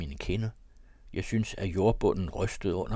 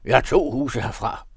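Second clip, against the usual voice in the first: louder echo of the host's shout; echoing call; 3 semitones higher, 6 dB louder than usual. A narrator's reading. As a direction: chime in after the host, raised voice. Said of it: "ekkoede skarpretteren".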